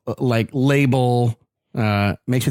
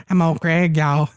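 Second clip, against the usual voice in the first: Old Greg impression; 3 semitones higher than usual. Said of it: "that was more old Greg".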